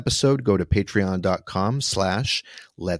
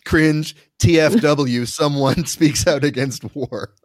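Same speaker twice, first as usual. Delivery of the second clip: mock cringe; 6 semitones higher, 4 dB louder, slower than usual. Mocking internet reaction, laughing.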